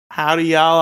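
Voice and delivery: put-on Southern accent. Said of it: "why do you have a good Southern accent there".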